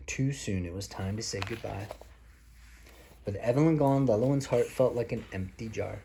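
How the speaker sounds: put-on a parent reading a story to a small child; reading to children. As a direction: read it like a bedtime picture book. Parent reads picture book aloud.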